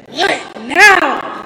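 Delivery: sharp, high, loud mock mom; a mother sighing at yet another call; mom's weary answer. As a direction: toss it off like a tired mother. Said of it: "she's just like".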